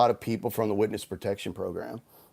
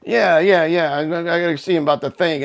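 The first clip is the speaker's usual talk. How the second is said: mafia line; 4 semitones higher, 4 dB louder than usual. Retold or imitated. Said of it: "he's doing the whole mafia, uh, line".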